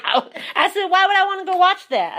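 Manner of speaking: amused incredulous retort; laughing disbelief. Retold or imitated. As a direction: laugh it off as absurd. Retelling incredulous reply.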